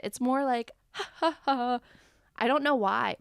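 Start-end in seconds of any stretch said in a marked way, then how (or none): 0.9-1.8 imitated airy laugh, pitched up a touch; Jennifer Tilly. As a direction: mimic a celebrity's light ha-ha-ha. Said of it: "when Jennifer Tilly says it".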